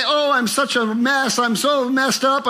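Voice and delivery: self-scolding. Retold or imitated. Imitating the self-scolding a child doesn't do.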